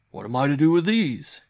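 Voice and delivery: high, loud cry rising at the end; exclaiming uncle. A narrator's reading. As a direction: cry it out to the boy, waving winnings. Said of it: "he cried".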